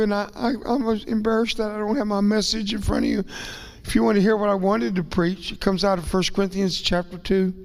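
ordinary talk, nothing marked

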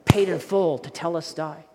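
loud, emphatic proclaiming of paid in full; stamped declaration. Retold or imitated. Preacher loudly proclaiming the stamped document's words. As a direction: ring out "Paid in full" like a stamp hitting paper. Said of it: "they would stamp on there".

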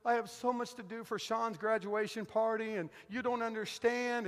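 retold tearful wife. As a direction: imitate a wife mildly wailing. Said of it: "and she's crying".

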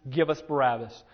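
mock mob demand, hit hard on AWAY; crowd crying out. Preacher voicing the crowd before Pilate, crying out. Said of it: "They cried out and said".

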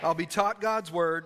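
deliberate line for them to echo; slow, firm call-out. Shown as a demonstration. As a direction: spell it out slowly for the congregation. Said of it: "Repeat after me and say".

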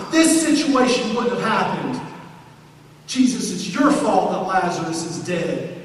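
tearful grieving accusation at Jesus; accusing Martha. Acted. Martha blaming Jesus for her brother's death, mildly accusing. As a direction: hurl it as blame, voice pressing.

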